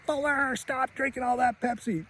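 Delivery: high-pitched scolding aunt; Aunt Leslie. Retold or imitated. Aunt tells Fuller to stop drinking, high mock scolding. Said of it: "Aunt Leslie's like".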